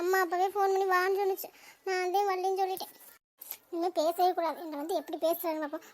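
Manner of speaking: mildly aggrieved solitary grumbling; grumbling to oneself. Acted. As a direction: complain to yourself, lightly put out. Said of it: "என்ன தனியா உட்காந்து புலம்பிக்கிட்டு இருக்கீங்க".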